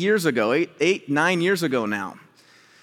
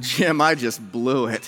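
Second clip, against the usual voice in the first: slow, lowered, mock-rueful admission; rueful confession; 4 semitones lower, slower than usual. Pastor confessing to his boss, acted ruefulness. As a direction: own up heavily and slowly.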